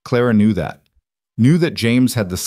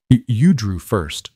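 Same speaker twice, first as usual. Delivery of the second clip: flat; 3 dB louder, slower than usual. Acted. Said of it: "James said flatly".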